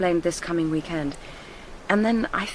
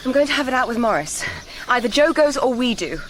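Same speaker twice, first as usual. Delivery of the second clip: fast, louder indignant outburst; 5 semitones higher, 4 dB louder than usual. Acted. Vowing to confront Morris, indignant outburst. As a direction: let the outrage spill out. Outraged after being spied on.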